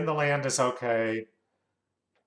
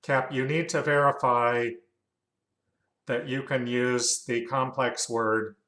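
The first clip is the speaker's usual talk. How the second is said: measured dictation with spoken punctuation; dictating. Real, not acted. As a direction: dictate it to the software, saying the punctuation. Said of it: "gotta remember about that voice recognition".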